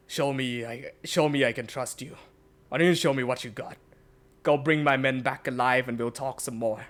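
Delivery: lightly voiced gruff tavern boss, measured; a hint of a stern leader. Tavern leader challenges Xavier to prove himself, calm and stern. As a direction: challenge the boy calmly. The speaker speaks low to Xavier.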